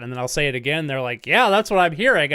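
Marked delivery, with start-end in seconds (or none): 1.2-2.3 louder, higher acted retort; mock exasperation. People arguing with him over his pronunciation, mock-exasperated. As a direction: throw it back, imitating an insistent listener.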